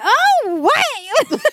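high, loud thrilled outburst; hammed-up squeal of arousal; turned on. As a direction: burst out in playful, overdone excitement. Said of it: "I'd be so turned on".

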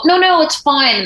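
high fake-cheerful it's fine; mock brave mother. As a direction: wave off the concern brightly. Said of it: "they had to make it and go".

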